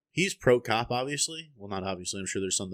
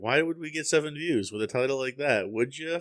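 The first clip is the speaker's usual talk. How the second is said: mock bewilderment; 5 semitones higher than usual. Mock future reaction to bad title.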